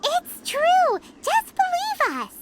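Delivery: earnest pleading. Acted. Companion urging Ganyu to believe them, earnest and high. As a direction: beg her to believe you.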